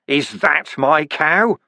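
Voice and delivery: slow, menacing growl; growled demand. Acted. Vimes facing the flame guard, slow and menacing. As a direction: threaten with the question. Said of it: "and growled".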